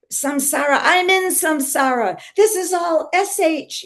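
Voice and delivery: high retold wail, as if falling apart; mock breakdown. Mother re-enacting her breakdown washing diapers, high mock wail. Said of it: "having a little breakdown there".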